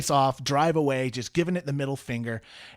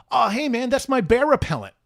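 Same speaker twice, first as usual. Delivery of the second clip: Kane's voice; 8 semitones higher, 4 dB louder than usual. Retold or imitated. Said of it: "Kane with the lip rings goes".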